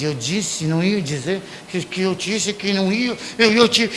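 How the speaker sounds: angry muddle. Retold or imitated. Angry parent losing the words, soft tripping mutter. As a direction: stumble over your words in anger. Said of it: "Você tá com raiva".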